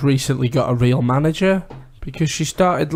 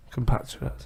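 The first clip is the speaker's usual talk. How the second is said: Russian accent; 2 semitones lower, 11 dB quieter than usual. Shown as a demonstration. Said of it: "Was that just a Russian thing".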